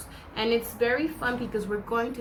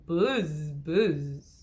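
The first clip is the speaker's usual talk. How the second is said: bee buzz; 6 semitones lower than usual. Shown as a demonstration. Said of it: "He can sound like a bee".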